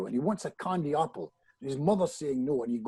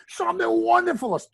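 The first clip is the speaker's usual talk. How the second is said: much higher, louder mirror cheer; gleeful shout; 6 dB louder than usual. Retold or imitated. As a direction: crow it out through the toothpaste. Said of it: "and I'm there".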